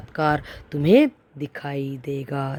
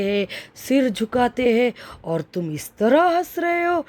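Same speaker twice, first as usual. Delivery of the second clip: lightly voiced goddess, pitch climbing higher in disbelief; a hint of an affronted goddess, rising to an incredulous high question; goddess Kali questioning; 4 semitones higher than usual. Goddess Kali asking boy Ravan why he laughs, lightly voiced, rising incredulity.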